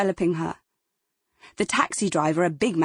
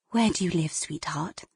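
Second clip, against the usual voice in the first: comforting; 2 semitones lower, 4 dB quieter than usual. Acted. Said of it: "making a comforting rocking movement".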